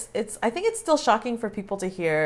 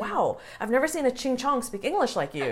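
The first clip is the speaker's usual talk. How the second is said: higher, mildly hammed-up astonishment; mock shock; 4 semitones higher than usual. Imitating people shocked by their English, mock amazement. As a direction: imitate an amazed stranger, raised pitch. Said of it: "they're genuinely shocked".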